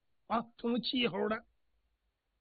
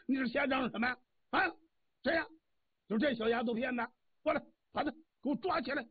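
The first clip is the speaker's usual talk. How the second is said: put-on angry old god; 5 semitones higher, faster than usual. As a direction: bark out the order to seize her. Old god angrily confronts intruder.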